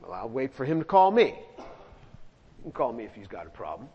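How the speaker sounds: playing the petty one who won't call first; mock sulky. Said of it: "It's not like".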